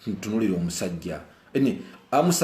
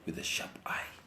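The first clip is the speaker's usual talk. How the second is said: whispered, almost voiceless; 13 dB quieter than usual. Shown as a demonstration. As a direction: breathe it out as a warning. Whispered repeat of phrase.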